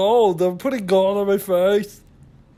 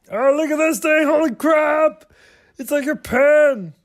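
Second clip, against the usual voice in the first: higher-pitched amazed exclaiming; excited discovery; 5 semitones higher, 3 dB louder than usual. Real, not acted. Vlogger finding a makeup pen, excited. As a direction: exclaim at a surprising find.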